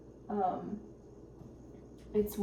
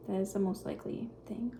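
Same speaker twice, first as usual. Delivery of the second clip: whispering; 5 dB quieter than usual. Real, not acted. Quietly musing while cooking.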